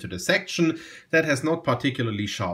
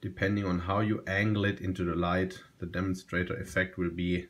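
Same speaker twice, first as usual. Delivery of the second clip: fading hush; 5 semitones lower, 6 dB quieter than usual. Real, not acted. Closing look at the pen.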